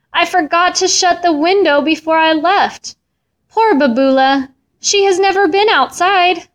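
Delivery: high-pitched, acted dismay; distressed cry. A narrator's reading. Missus Katz realises her cat got out, voicing acted distress. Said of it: "she cried".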